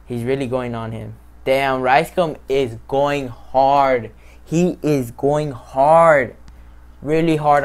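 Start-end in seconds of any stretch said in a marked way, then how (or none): 1.4-7.6 slow, loud, stretched-out awe; impressed and hyped. Real, not acted. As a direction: draw it out, blown away by him. Impressed by the diss.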